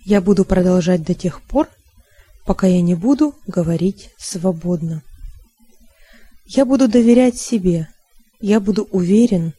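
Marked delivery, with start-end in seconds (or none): none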